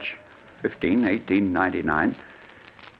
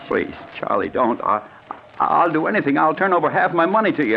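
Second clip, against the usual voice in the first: higher, frantic begging; desperate pleading; 5 semitones higher than usual. Acted. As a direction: plead for your life. Victim begs for his life.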